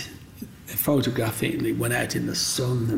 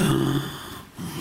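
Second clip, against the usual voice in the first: sharp intake of breath in awe; awed gasp; 3 semitones higher than usual. Retold or imitated. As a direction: gasp like the stunned sisters. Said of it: "everybody took this deep breath".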